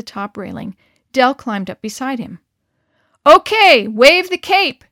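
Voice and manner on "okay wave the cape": loud, high shout. Acted. Harry shouts to John to wave the cape, loud. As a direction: yell the order to wave the cape. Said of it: "Harry shouted".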